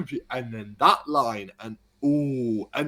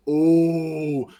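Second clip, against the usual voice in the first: crowd gasp; 3 semitones higher, 6 dB louder than usual. Retold or imitated. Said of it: "the arena just goes".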